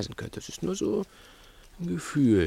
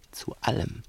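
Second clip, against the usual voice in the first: ominous whisper; 3 semitones higher, 5 dB quieter than usual. Acted. Ominous repetition.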